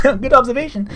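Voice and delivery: high, mock-impressed sarcasm; sarcastic praise. Reacting to Zoro's remark, high mock-impressed sarcasm. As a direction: tease the obvious remark. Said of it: "And I was like".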